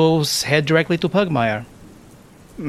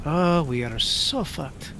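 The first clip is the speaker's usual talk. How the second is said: muttered to himself; 2 semitones higher, 5 dB quieter, slower than usual. Acted. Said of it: "Dante is thinking".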